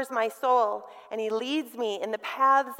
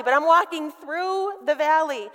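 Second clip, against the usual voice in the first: raised, louder, "through" leaned on; emphatic "through", higher and louder; stress on THROUGH; 4 semitones higher, 5 dB louder than usual. Shown as a demonstration. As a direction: lean hard on "through". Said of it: "Just by emphasizing that one little word".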